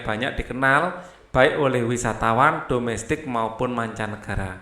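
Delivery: steady, formal reading aloud of a passage; textbook reading. A narrator's reading. Teacher reads a tourism passage to pupils. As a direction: read it out like the textbook.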